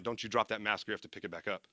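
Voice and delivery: low, hushed inner voice; low self-warning. Acted. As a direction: drop pitch and volume, warning yourself. Self-talk while gagging underwater.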